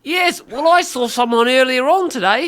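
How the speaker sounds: playful put-on Kiwi; mock New Zealand accent. Co-host reviewing the song, mock Kiwi accent. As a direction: play along as a New Zealander. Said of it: "just New Zealand accent".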